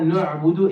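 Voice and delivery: "نعبد" starting with a heavy "no"; heavy noon. Shown as a demonstration. Teacher rejecting the mistake for students, "نعبد" with heavy noon. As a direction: round the first vowel of "نعبد". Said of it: "It's not".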